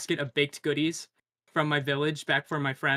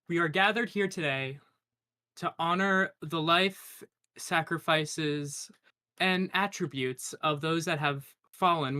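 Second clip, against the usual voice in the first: lightly voiced eulogy, gently paced; faltering tender eulogy. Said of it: "give me a quick speech".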